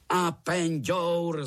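"Apenďour!" roared slow, high and loud; roared in chorus. A narrator's reading. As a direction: bellow "Apenďour!" like a gang of uncles in unison. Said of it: "zařvali všichni strýčci sborem".

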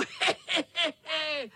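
high triumphant cackle; gleeful cackle. Acted. Tomcat cackling while speeding away. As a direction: cackle as you ride off. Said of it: "Chechtal se kocour".

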